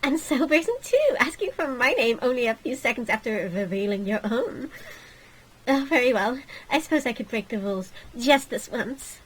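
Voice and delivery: lightly voiced snooty royal; haughty princess. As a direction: look down your nose, prim.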